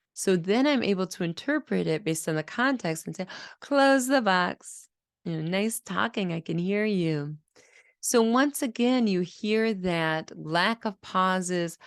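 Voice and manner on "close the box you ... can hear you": encouraging model. Shown as a demonstration. Therapist modelling the words and praising the child.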